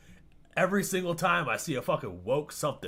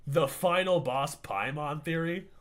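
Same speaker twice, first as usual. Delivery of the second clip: incredulous repeat; slower than usual. Real, not acted.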